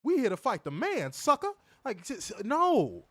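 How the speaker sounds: high-pitched mock militant promo; exaggerated jive-talk impression; blaxploitation heroine parody. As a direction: declare it like a hammed-up movie heroine. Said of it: "have to talk like that".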